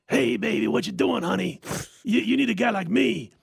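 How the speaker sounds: lightly acted tipsy come-on; imitating I M Johnson. Friend hitting on Carol after the game, lightly voiced tipsy flirt. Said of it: "all of a sudden we hear this".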